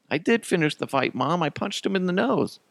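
put-on high-pitched boy reporting to mom; protesting little kid. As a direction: insist like a small child. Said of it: "I'm like".

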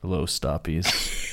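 low, slow, letdown father voice; disappointed dad. Shown as a demonstration. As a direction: sigh it like a let-down dad. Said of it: "disappointed dad energy".

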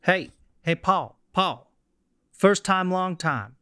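light put-on New Orleans accent as a radio caller. Caller phoning the host in a mild New Orleans accent. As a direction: call in as a Gator fan from New Orleans. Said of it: "which is a New Orleans accent".

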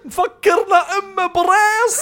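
high laughing mock question. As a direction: laugh through the words like the grandfather. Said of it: "died of laughter".

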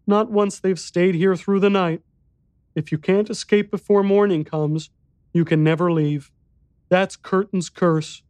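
put-on high, small boy's voice; little boy voice.

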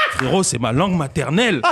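said through laughter; can't hold the laugh in. Real, not acted. Répète en riant. (en riant)

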